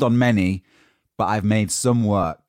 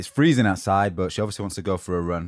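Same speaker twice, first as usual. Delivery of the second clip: out of breath. Real, not acted. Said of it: "Now I'm out of breath for running up the stairs".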